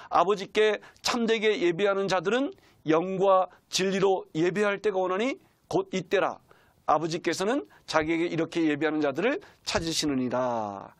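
slow, measured bible reading; scripture reading. Acted. Preacher reads John 4:23 aloud, solemn and slow. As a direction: read it solemnly to the church.

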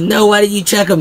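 high, frantic mock cry; hammed-up shriek of disbelief; panicked. Cannibal shrieking at Gareth in a high, mock panic. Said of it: "they're losing their minds".

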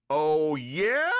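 loud, rising retort; police chief shouting back; shouted challenge. A narrator's reading. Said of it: "shouted the police chief".

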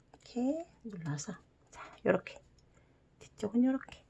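soft whisper while folding. Real, not acted. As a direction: whisper under your breath. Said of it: "whispering while folding".

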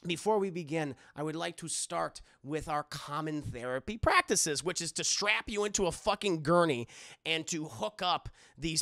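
put-on light German accent; hint of a German doctor explaining procedure; loosely held comic German accent; Hugo Strange. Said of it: "a very thick German accent".

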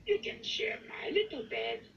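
quick, airy high puppet voice; Grover. A narrator's reading. Grover offering Ernie his bed, quick high character voice. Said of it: "says Grover".

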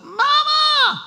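put-on high, loud child yelling mama from afar; child calling mama at full volume; child's shout. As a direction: shout it like a kid across the room. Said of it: "بچه از دور فریاد زد".

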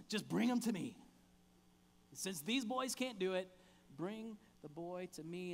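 an impatient sigh of an order; exasperated. Acted. Jesus tells the crowd to bring the boy, mildly exasperated. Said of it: "almost exasperated".

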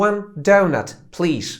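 One donut, please in English; calm English order; English phrase demo. Shown as a demonstration. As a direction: order it simply. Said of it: "Możesz powiedzieć po prostu".

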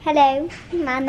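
attempted British accent. Shown as a demonstration. Asked by mom for a best British, British accent. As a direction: have a go at sounding British. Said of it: "Give me your best British accent".

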